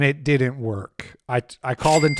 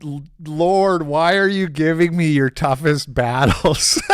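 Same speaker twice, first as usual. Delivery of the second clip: half-laughing plea to the Lord; laughing mock prayer; 3 dB louder than usual. Streamer jokingly asks the Lord why, laughing. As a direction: pleads to heaven through laughter.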